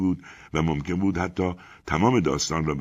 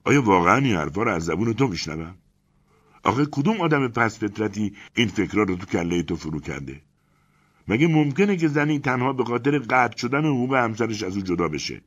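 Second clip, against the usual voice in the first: sympathetic astonishment; 6 semitones higher, 4 dB louder than usual. Acted. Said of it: "با تعجب و لحنی دلسوزانه فریاد زدم".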